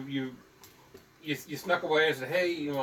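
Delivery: ordinary delivery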